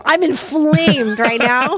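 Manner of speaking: slow, mock-sulky declaration; mock angry. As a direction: announce it deadpan like a grievance. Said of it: "what I'm gonna say to you when I'm angry".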